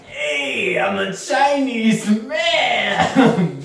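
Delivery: slow, drawn-out mock Asian accent. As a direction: ham up a stereotyped Asian accent. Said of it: "Could you do the accent".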